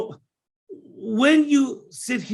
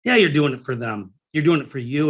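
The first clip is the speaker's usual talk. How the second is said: ordinary talk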